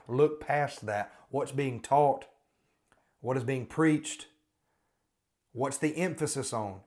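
pleading pulpit emphasis with weighted key words; emphatic preaching. Real, not acted. Preaches emphatically against the crusade's focus.

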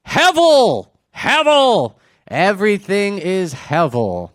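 high, loud proclamation that settles down; dramatic cry. Acted. Preacher giving the Hebrew version of the outcry, dramatic shout. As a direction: cry it out high, then slow down.

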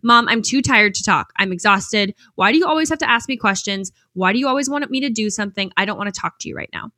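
tired son snapping at his mom, mild mock anger; angry teen answer. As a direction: retell the son's annoyed outburst lightly. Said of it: "angrily answered".

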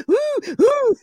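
very high, loud hooting wail; hammed-up pained whoops; mock scream. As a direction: imitate a kid howling in pain. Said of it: "he screams".

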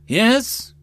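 eager, high-pitched agreement; bright leap up in eagerness; fervent. A narrator's reading. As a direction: agree at once with fervour. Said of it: "Jutsu nodded fervently".

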